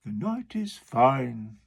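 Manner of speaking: slow walrus voice; the walrus making small talk. Acted. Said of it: "the walrus said".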